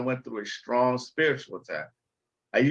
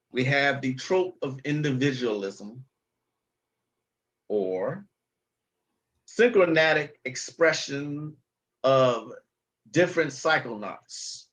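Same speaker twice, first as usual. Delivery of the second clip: mock word salad. Shown as a demonstration. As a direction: parody a show-off using big words. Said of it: "who like to speak like this".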